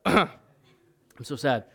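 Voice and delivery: ordinary talk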